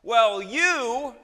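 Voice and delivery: loud, high comeback, breaking into a chuckle; hammed-up reviling in return; mock angry retort. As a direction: fire back like someone picking a fight. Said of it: "would be an angry response".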